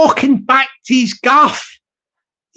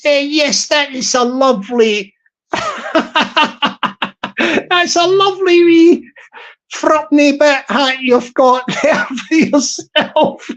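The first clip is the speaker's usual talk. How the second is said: lightly voiced fawning shop server, a bit higher; a hint of an eager Glasgow shop assistant; shop worker voice; 4 semitones higher than usual. Shop server flattering the wee guy's hat, lightly put-on eager voice.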